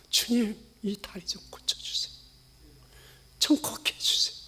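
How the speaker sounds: hushed pleading whisper; whispered plea for a broken leg; whispered prayer. Retold or imitated. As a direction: beg softly for healing.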